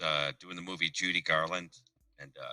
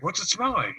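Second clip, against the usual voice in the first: mock curious stoner; 11 semitones higher than usual. Acted quote, high voice.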